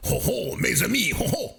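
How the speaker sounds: a lightly voiced Doctor Evil, rising to high on the last ho; playful mock-French villain greeting, climbing up at the end; Doctor Evil impression. Dad shows his kids his French with a light Doctor Evil voice. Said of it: "Just like Doctor Evil in Goldmember".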